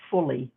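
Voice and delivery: "fully" begun with an f sound; pronunciation demo. Shown as a demonstration. Quilter explaining a term spelt PHULI, "fully" said with f. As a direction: say "fully" carefully, PH as f. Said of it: "it's pronounced fully".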